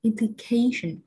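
implication with CA stressed; implication, main beat on the third syllable; stress before the ending. Shown as a demonstration. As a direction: lean on the CA in implication. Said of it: "ngay liền kề trước nó".

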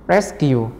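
"Rescue" with the first syllable stressed. Shown as a demonstration. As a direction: hit RES in "Rescue". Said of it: "này âm một mấy em".

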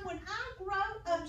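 high, slow caterpillar voice; a high, slow storybook caterpillar. Acted. Teacher reads the caterpillar's line to children, high and slow.

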